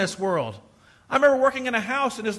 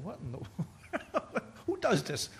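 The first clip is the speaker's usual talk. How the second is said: mock outrage; 8 dB quieter, slower than usual. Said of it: "I'm not the one that's like".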